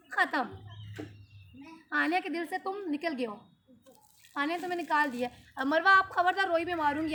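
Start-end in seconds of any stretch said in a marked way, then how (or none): 5.6-7.1 stern warning. Real, not acted. Threatening kids not to cry.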